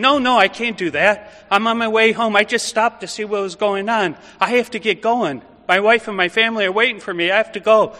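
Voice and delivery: a reluctant man begging to be let off; pleading Simon. Retold or imitated. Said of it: "I imagine Simon saying".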